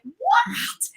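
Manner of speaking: shocked high squeak of disbelief; reliving the shock of endless ocean, a high cry; stunned what. Retold or imitated. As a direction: blurt it out high and bewildered, near tears. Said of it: "I was like".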